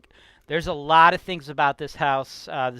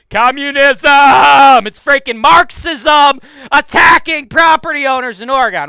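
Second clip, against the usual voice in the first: slow, much higher and louder outraged yell; ranting shout; 9 semitones higher, 14 dB louder, slower than usual. Real, not acted. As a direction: bellow it like a furious rant against communism. Ranting about Oregon politics.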